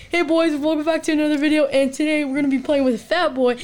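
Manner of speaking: quick, upbeat video intro; youtuber intro. Retold or imitated. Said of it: "when I said".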